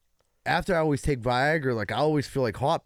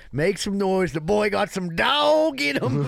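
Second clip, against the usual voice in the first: hype man; 5 semitones higher, slower than usual. Acted. Host hyping up co-host.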